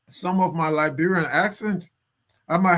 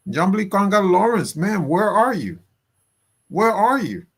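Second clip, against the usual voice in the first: calling out; 5 semitones higher, 3 dB louder than usual. Real, not acted. Calling out to a senator.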